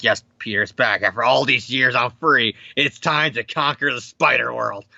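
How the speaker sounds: low, menacing villain; lightly voiced gloating villain. Norman villain speech.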